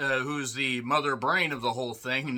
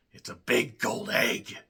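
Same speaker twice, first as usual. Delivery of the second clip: impression; 4 semitones lower than usual. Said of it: "shouldn't do that impression anymore".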